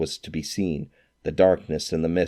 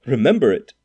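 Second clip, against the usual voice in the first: louder, higher eager exclamation; fervent cry; 6 semitones higher, 6 dB louder than usual. A narrator's reading. Scrooge answers the ghost with fervour. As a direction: burst out with fervour. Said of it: "cried Scrooge with fervour".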